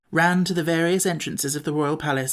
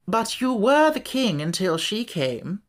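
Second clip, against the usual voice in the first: slow and high, a pompous bug strutting; high, slow self-important insect voice; Wogglebug voice; 6 semitones higher, slower than usual. A narrator's reading. Wogglebug to the Scarecrow while strutting, slow and high.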